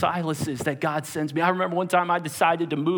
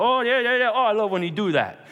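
excited fan; 3 semitones higher, 3 dB louder than usual. Retold or imitated. Onlooker cheering a friend's familiar trick, excited. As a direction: imitate delighted egging-on. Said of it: "And he'd go".

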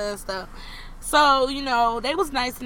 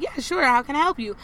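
customer service voice; 4 semitones higher, 3 dB louder than usual. Retold or imitated. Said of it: "I turned on my customer service voice".

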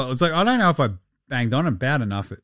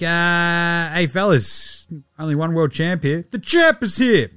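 bragging champ; 4 semitones higher than usual. Retold or imitated. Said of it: "And you're like".

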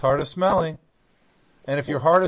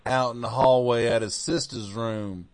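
put-on North Carolina accent; 3 semitones lower than usual. Apologizing for technical difficulties, in a North Carolina accent. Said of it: "This is my North Carolina accent".

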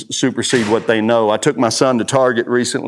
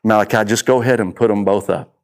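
lower-pitched, tender fatherly talk; gentle and loving; 3 semitones lower than usual. Retold or imitated. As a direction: gently let your son down. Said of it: "I gently and lovingly".

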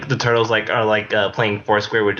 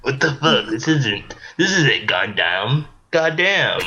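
outraged Splinter voice; 5 semitones higher, slower than usual. Retold or imitated. Voicing Splinter indignant.

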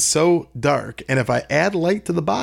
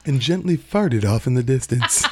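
laughing. Real, not acted. Topping the joke while laughing.

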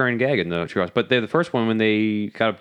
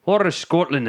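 half-hearted attempt at Scottish; bad Scottish accent; 3 semitones higher than usual. Shown as a demonstration. Second go at the accent, shaky fake Scottish. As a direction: try a Scottish accent and give up. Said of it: "uh, yeah, Scottish accent".

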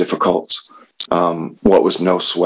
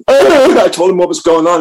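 laughing through the words, higher and louder; 12 semitones higher, 5 dB louder than usual. Real, not acted. Telling the audience how he confessed, laughing. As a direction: let the laugh carry the line.

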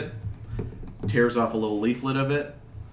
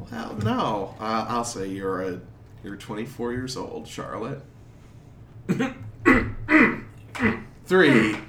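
flustered clerk; slower than usual. Acted. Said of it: "he says".

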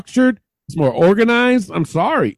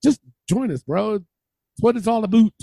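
bad Canadian accent; 3 semitones higher than usual. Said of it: "that was my Canadian accent".

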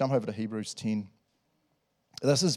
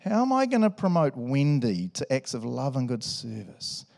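playfully plotting; mock scheming. A churchgoer plotting to encourage Wendy, mock scheming. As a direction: muse like a cartoon schemer. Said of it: "sitting at home scheming".

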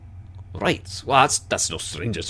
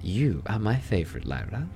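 delighted laughter; 2 semitones higher than usual. Acted. Susurrus praises Lyra's joke, laughing. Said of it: "the professional quiet mask ... shatters".

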